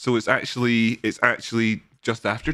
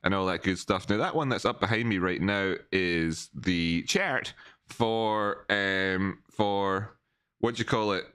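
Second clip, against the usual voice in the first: quiet voice; 6 dB quieter than usual. Real, not acted. Talking quietly during phone call.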